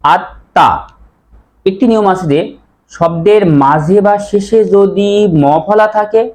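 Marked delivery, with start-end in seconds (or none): 0.0-0.7 আত্মা said at-tã, m silent; doubled nasal t. Shown as a demonstration. Teacher answers own question, t doubled. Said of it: "উচ্চারণ কি হবে?".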